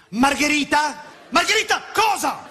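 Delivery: high, rising incredulous waiter; baffled waiter. Retold or imitated. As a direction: question it like a confused waiter. Waiter repeating order.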